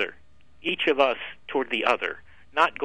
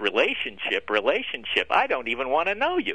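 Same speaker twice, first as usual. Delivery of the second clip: ordinary delivery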